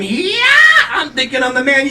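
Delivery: very high cry of ecstasy; mock orgasmic scream. Imitating a lover's scream in bed, mock ecstasy. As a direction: squeal it in hammed-up pleasure. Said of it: "She lets out this orgasmic scream".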